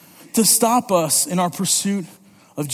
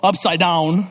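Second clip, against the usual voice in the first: put-on Italian accent; 4 semitones lower, slower than usual. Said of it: "they called it more like Upside Down".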